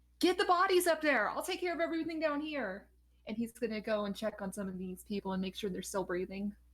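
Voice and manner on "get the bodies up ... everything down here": yelled out loudly at high pitch. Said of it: "he just yells out after you".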